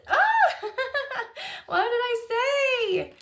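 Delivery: high, slow, tearful laugh; laughing through tears. Real, not acted. Moved by her own reading, laughing near tears. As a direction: let the laugh crack into tears. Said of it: "I just said I don't cry much".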